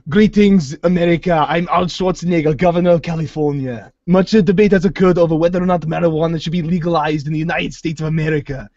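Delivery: mock Arnold speech. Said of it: "Sylvester Stallone would be making fun of Arnold".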